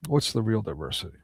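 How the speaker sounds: hushed, rising second asking of What's the real diversity; quiet repeat. Shown as a demonstration. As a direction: drop the voice and ask it again, almost to yourself. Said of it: "What's the real diversity there?".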